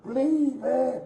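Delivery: begging for air in real panic; gasping plea for someone to help; desperate begging. Real, not acted. Pinned man begging for help.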